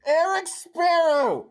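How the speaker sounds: high, slow mock yell; muffled screaming. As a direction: scream the answer through a hand. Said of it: "muffled screaming the answers".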